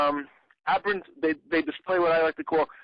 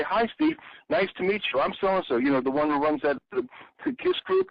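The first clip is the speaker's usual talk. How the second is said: polite greeting; 3 semitones higher than usual. Retold or imitated. Telling the rude group leader how to greet him, mildly polite. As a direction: model a courteous "Hi, Steve". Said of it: "You say".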